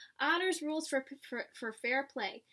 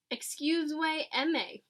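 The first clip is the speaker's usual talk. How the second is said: slow, drawn out; much slower than usual. Acted. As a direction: stretch out excuse me. Slow pig latin excuse me.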